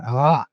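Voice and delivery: short, mild mock yell of "ah"; irritated growl-yell. Satan irritated at being refused, mild imitated yell. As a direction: imitate an irritated outburst, held back. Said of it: "he got irritated and he went".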